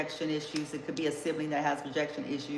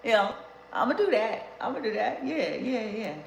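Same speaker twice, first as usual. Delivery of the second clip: laughing; 6 semitones higher than usual. Pretend. Jokingly playing the sulking jilted one.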